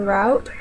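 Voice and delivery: "route" said as "rowt", rhyming with out; Southern drawl "route" as "rowt". Shown as a demonstration. Speaker demos the Southern way, "route" as "rowt". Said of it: "I would say route".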